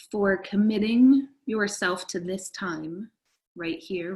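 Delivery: measured meditation guide with lingering pauses; guided meditation. Real, not acted. Teacher settling listeners into time for themselves, meditative guidance. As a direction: ease listeners into it, phrase by phrase.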